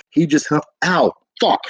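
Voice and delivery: real pained ow; sudden pain. Real, not acted. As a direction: yelp after biting down. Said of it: "I just slapped two of my teeth together".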